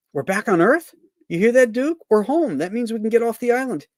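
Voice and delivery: thrilled to be home; excited Mac. Acted. Mac voiced in comic strip.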